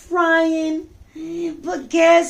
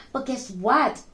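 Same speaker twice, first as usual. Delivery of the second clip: hushed secret whisper; 2 semitones lower, 3 dB quieter than usual. Acted. Storyteller whispering a teaser to the kids. Teasing the young listeners.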